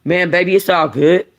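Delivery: laid-back easy reassurance; smooth it over, relaxed; lightly voiced cool boyfriend; Juice voice. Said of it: "What about Juice".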